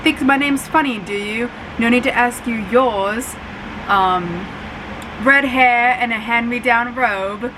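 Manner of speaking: a light imitation of a snooty British accent; lightly voiced British schoolboy, the movie Draco. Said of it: "I don't know why I'm doing the accent".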